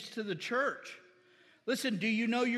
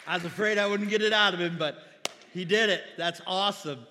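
relieved excitement; 7 dB louder than usual. Real, not acted. Relieved exclamation after boy answers.

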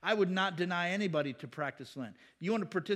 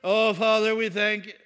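showy loud prayer; 4 semitones higher, 12 dB louder than usual. Retold or imitated. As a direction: pray so loudly the whole room hears, hammed-up piety. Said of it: "they're going".

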